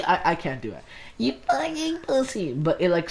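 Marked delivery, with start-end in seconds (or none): 1.2-2.5 very high mock squeak; hammed-up high-pitched insult; squeaky imitation. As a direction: mimic his outburst in a strained-for falsetto.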